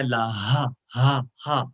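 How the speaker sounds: ہا breathed out from the chest. Shown as a demonstration. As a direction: push ہا out from the chest. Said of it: "اس کو سینے سے ادا کرتے ہیں".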